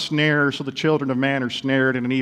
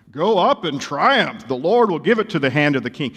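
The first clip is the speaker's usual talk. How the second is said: sarcastic prophecy. Acted. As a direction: proclaim it with mock grandeur, not meaning it. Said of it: "He says it so sarcastically".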